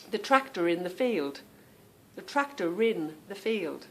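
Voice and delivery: "tractor in" said as "tracta rin"; linking R. Shown as a demonstration. Example for viewers, "tractor in" linked by R. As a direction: carry the R of "tractor" onto "in". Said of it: "R seems to go on to the beginning".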